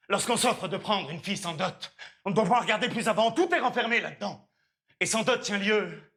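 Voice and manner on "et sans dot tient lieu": building fervour. Acted. Suitor extols marrying without dowry, building fervour. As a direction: list climbing from even to high and emphatic.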